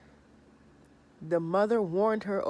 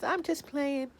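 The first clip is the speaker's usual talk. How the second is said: higher whispered tease; teasing whisper; 10 semitones higher, slower than usual. Retold or imitated. Chantel telling Pedro she is kidding, high whisper. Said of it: "She says".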